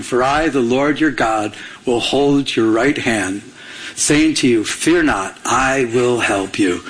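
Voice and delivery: slow, low, measured verse; scripture reading. Acted. Pastor reads Isaiah's promise to the congregation, scripture reading. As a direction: read it out deliberately.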